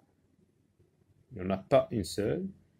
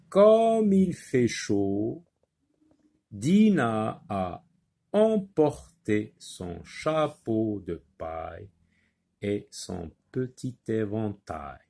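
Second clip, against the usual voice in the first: slow, careful reading of the sentence; slow read-aloud; slower than usual. Shown as a demonstration. Teacher reading the example sentence to pupils, slow and careful. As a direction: read it slowly to the class like a model text.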